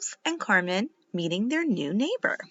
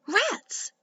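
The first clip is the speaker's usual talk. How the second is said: disappointed; 12 semitones higher than usual. A narrator's reading. Disappointed at the fence.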